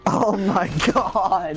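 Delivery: amazed. Real, not acted. Reacting to the teacher story.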